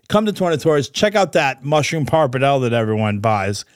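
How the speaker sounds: upbeat ad read, lightly pitched; sponsor read. Acted. Host pitching sponsor to Florida restaurant owners, ad-read voice. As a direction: sell the truffle company to restaurant owners.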